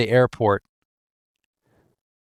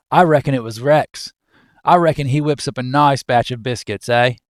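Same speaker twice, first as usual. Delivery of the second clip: attempted Australian. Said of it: "I can't do Australian".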